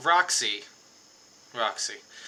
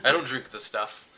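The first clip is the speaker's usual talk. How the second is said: fussy refusal; 6 semitones higher, 7 dB louder than usual. Acted. Reginald refuses apple juice.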